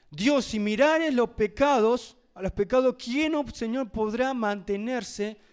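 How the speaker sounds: fervent reading. Acted. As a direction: proclaim the verse with force. Reading the psalm aloud.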